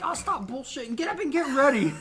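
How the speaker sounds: lightly voiced annoyed mom, rising pitch; a hint of an impatient mother; mock mom. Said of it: "she was like".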